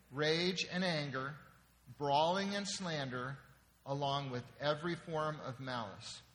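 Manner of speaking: slow, measured reading with pauses between phrases; scripture read aloud. Real, not acted. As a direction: lead a congregation reading in unison. Leads congregation reading scripture aloud.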